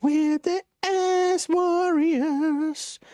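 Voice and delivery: high, drawn-out hype announcer voice; mock announcer. Streamer hyping his team name to chat, mock announcer.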